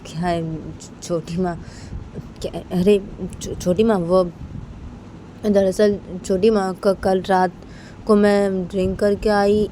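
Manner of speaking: halting, stammered explanation with gaps; hesitant confession. Acted. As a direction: stumble over your words as you explain. Bani haltingly explains her drinking. (हिचकिचाते, अटकते हुए सफ़ाई)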